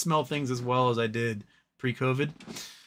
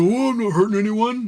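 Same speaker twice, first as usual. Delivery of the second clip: much higher, louder, fake-innocent voice; mock innocent Nazi; 8 semitones higher, 8 dB louder than usual. Nazi patron pleading with the bartender, in a high fake-innocent voice. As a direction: play a troublemaker pretending to be harmless. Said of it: "And they go".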